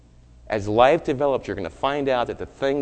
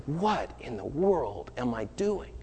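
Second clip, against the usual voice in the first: slow, soft, dazed self-question; stunned quiet; 8 dB quieter, slower than usual. Retold or imitated. Friend realizing what she did, quiet and slow. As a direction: say it to yourself as it sinks in.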